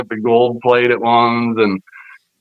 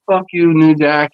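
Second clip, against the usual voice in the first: angry retort; 5 semitones higher, 3 dB louder than usual. Retold or imitated. Own angry retort in retold standoff.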